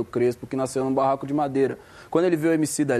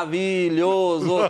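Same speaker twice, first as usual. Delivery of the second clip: "maravilhoso" slow, hitting ma, ra, vi, lho, so each; drawn-out "maravilhoso" with equal heavy beats; every syllable stressed; 2 semitones higher, much slower than usual. Shown as a demonstration. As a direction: punch all the syllables of "maravilhoso" separately. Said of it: "todas as sílabas são tônicas".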